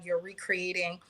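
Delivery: ordinary talk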